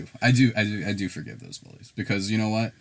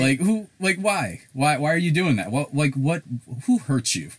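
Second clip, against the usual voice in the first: incredulous rant; 7 semitones higher, 5 dB louder than usual. Real, not acted. Ranting at people being mean.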